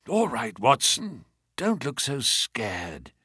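faint, slow, quiet mutter; weak mutter. Acted. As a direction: barely get the words out. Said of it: "he muttered in a very weak voice".

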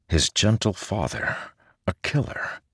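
breathless whisper of disbelief; hushed whisper. A narrator's reading. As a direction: whisper it, stunned. Narrator echoes horrified thought.

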